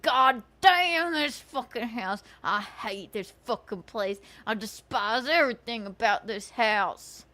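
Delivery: talking through clenched teeth; words squeezed through shut teeth; through gritted teeth. Retold or imitated. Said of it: "Talking through his teeth".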